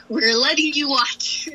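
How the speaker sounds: hushed, slow whisper; playful whispered reassurance. Retold or imitated. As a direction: breathe it out, teasing. Teammates keeping her out.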